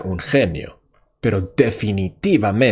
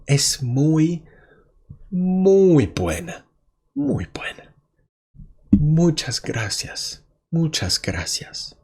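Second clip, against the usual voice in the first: Karina moved by the letter; 6 semitones higher than usual. Acted. Karina thanks her boyfriend for the letter, high and tearful. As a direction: gush your thanks, nearly in tears. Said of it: "Y ella dice".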